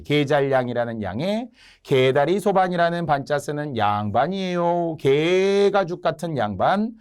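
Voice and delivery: singsong mock proclamation of wordplay. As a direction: stretch each pun into a jeer at the nobles. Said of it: "이런 식으로 조롱을 한 거예요".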